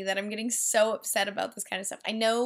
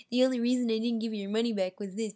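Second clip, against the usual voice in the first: mock imitation; faster than usual. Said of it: "That's exactly how he sounded".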